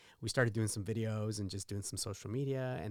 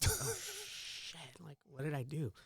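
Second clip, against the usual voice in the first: mock panic; 4 semitones higher, 6 dB quieter, slower than usual. His inner panic, retold.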